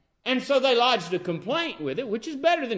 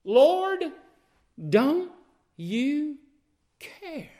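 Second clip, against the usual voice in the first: shrill scolding; 6 semitones higher, much slower than usual. Acted. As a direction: throw the complaint at him. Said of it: "They're scolding the Lord".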